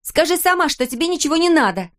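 put-on a girl yelling at her mother, near shout. A narrator's reading. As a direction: drive him out, almost screaming. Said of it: "Кристел почти кричала на мать".

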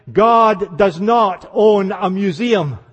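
slow, weighty, each word set down; solemn slow quotation; slow quote. Retold or imitated. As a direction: let the quote land slowly. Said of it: "Oswald Chambers who said".

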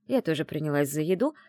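plain reading voice

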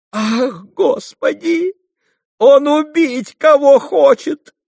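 slow, very high wail of alarm; horrified cry. A narrator's reading. Fenya realising he means to kill someone, horrified wail. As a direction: cry out aghast, loud and drawn-out. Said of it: "всплеснула руками Феня".

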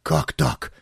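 a startled, breathless gasp; hushed panic, voice dropping to nothing; alarmed. A narrator's reading. Alarmed lover hears the husband coming, gasps in panic. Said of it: "переполошился Павел Георгиевич".

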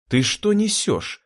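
high, slow indignant cry; angry exclamation. Acted. Anne angry at Jurgen asking to be killed, indignant cry. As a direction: demand it slowly in outrage. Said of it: "гневно воскликнула Энн".

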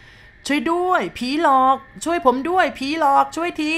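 high, loud, slow cry for help; terrified scream. Acted. Driver alone on the road screaming in terror at the ghost. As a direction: scream for help at the top of your voice. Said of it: "ตะโกนออกมาสุดเสียงด้วยความหวาดกลัว".

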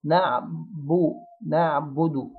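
نعبو and نعبد with baa begun in a smile, then quickly rounded; light rounded baa. Shown as a demonstration. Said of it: "نبدأ بيها وإحنا مبتسمين ونضم بسرعة". (باء نعبد مرققة مضمومة)

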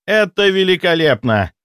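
high loud delighted cry; delighted exclamation. A narrator's reading. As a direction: exclaim in admiration. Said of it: "восхитился Ростислав".

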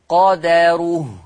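قدره drawn out slowly as qa-da-ruh; slow teaching take of قدره with dal plus "a"; fatha on dal. Shown as a demonstration. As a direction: open the dal of قدره into a clear "da". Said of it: "بفتح الدال".

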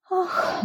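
high soft sighing "ah"; icicles sigh. A narrator's reading. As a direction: breathe out a tiny fearful sigh. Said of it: "вздохнули маленькие ледышки".

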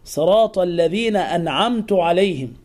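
"أنعمت" ending in tu, an'amtu; damma on ta. Shown as a demonstration. Teacher mimics the error, "أنعمت" ending in u. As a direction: finish "أنعمت" with u instead of a. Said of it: "يأتي بضمة".

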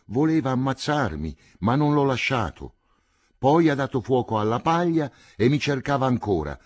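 put-on high, panicked boy's voice pouring out the news; a terrified boy gasping out what his father did; frightened boy. Terrified boy blurting out the horror.

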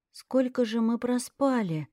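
hoarse just-woken voice; hoarse sleepy voice. Acted. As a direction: rasp it out half asleep. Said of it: "хриплым с просонья голосом".

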